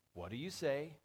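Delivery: lilting "what do you say?" rising at the end; sing-song prompt, swooping up on "say"; parental sing-song. Shown as a demonstration. Parents teaching kids to say thank you, sing-song. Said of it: "little sing-song almost".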